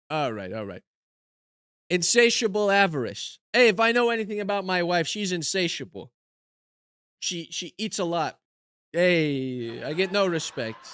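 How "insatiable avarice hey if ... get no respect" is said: lightly voiced put-upon comedian; old-school joke delivery with catchphrase; put-on stand-up comic. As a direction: play a hammy one-liner comic. Delivers one-liners as joke comedian persona.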